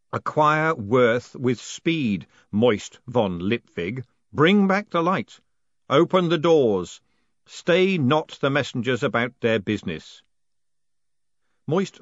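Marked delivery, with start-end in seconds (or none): 0.1-10.2 slow, loud, booming spirit voice; ghostly voice. Acted. The haunted post office pronounces Moist postmaster, slow and booming. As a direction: intone it like the building itself speaks. Spectral voice commands.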